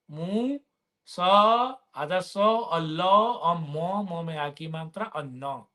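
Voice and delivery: spelling a word out letter by letter; slowly sounding out each syllable. Shown as a demonstration. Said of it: "समझ गए?".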